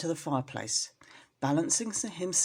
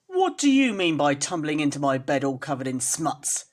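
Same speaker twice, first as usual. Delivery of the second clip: louder, cross rat scolding the kitten; angry rat; 2 semitones lower, 6 dB louder than usual. Acted. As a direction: scold him for the mess. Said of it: "said the rat, chattering his teeth".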